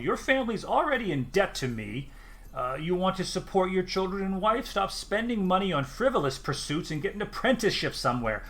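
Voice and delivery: a mildly stern, rising scold; fed-up woman laying down the law; a touch of temper; Elise losing patience. Acted. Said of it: "losing her temper a small bit".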